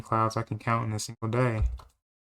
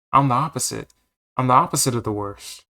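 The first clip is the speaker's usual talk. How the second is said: boastful; 4 dB louder than usual. Acted. Boasting loudly to the farmer.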